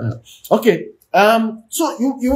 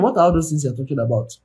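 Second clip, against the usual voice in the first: mock exasperated wife, fast then pitched up; wife pleading she wants him, not his money; lightly voiced frustrated wife; hurt wife; 3 semitones higher than usual. And she's wondering.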